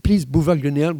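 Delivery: American tourist asking for directions; American accent. Retold or imitated. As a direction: imitate an American saying "boulevard Grenelle". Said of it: "et ils disent aux gens à côté". (accent américain imité)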